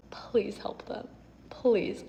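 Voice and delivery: dropped to a near whisper. Real, not acted. Vlogger urging viewers to help others, near whispered.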